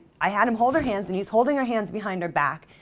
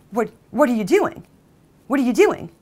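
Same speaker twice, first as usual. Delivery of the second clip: alarmed disbelief; 2 semitones higher, 4 dB louder than usual. Acted. His alarmed reaction acted out.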